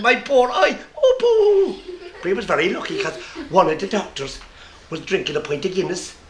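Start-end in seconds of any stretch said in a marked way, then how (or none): 0.0-2.1 high, loud, laughing moan; hammed-up whine over a poor eye; mock lament. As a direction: moan it like a pantomime victim. Doctor moaning over his eye.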